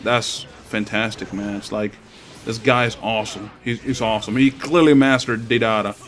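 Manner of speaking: dry mock praise; sarcastic. Gamer mocking his opponent's Deidara with sarcastic praise. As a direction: praise him but mean the opposite. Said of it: "And I'm being sarcastic".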